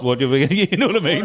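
laughing through the question; giggling as she asks. Real, not acted. Laughing while asking.

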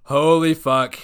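loud stunned curse; shocked outburst. Real, not acted. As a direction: blurt it out in shock. Shocked at long sentence.

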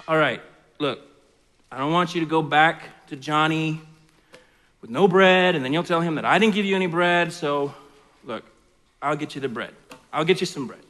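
groggy low friend woken up; sleepy friend. Acted. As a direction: mumble like you were just woken. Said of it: "this is how the story goes".

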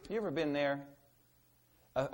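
ordinary talk

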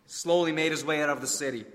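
vivid, measured story narration; preacher retelling a story with drama; dramatic sermon storytelling. A narrator's reading. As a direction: paint the leper's story for the congregation.

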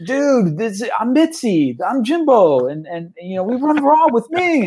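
high, eager greeting from star-struck gamers; excited fans. Retold or imitated. UK organizers introducing themselves to him, high eager gush. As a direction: gush like meeting your hero. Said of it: "And they're like".

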